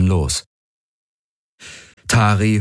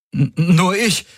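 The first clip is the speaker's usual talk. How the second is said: higher, stuttering start, faked nerves; stammering; 12 semitones higher than usual. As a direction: trip over the first word. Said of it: "stammelte Valyr". (stammelnd, höher, gespielt nervös)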